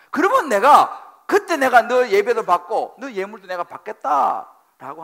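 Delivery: loud, high fervent preaching; preaching at full force. Acted. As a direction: drive each phrase home to the pews. Preaching God's command at full force.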